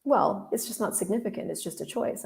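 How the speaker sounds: soft, trailing to a near whisper; understated. Retold or imitated. Gary downplaying the choice to her, softly understated. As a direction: shrug it off as insignificant.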